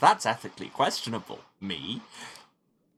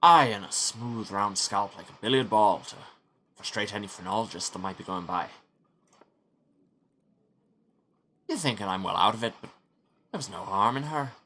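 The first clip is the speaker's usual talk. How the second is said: lightly put-on Scottish accent; trying for Scottish. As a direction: push the Scottish, it keeps slipping. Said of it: "try and get more Scottish".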